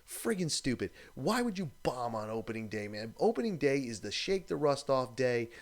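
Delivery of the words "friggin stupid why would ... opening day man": ordinary talk, nothing marked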